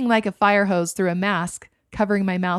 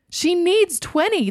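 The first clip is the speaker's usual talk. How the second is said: higher, slow panicked insistence; 10 semitones higher, 4 dB louder, slower than usual. A narrator's reading. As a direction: plead the number in alarm. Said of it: "the E M T stated in panic".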